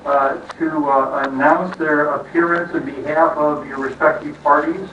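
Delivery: muffled behind a face mask; through a face mask. Real, not acted. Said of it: "difficult speaking through masks".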